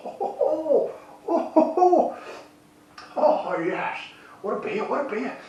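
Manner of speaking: thrilled cry of pleasure, reined in only a little; delighted exclamations. Real, not acted. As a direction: burst out with delight at the first sip. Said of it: "I'm trying not to talk too loudly".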